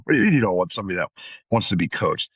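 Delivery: quick, disbelieving echo of the remark; incredulous inner voice. Retold or imitated. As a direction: rush it out like you can't believe what you heard. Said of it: "I kinda thought to myself".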